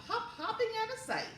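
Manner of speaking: quick, high, giggly hop; playful laughing. Acted. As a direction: bounce the words with a laugh. Hopping line, laughing.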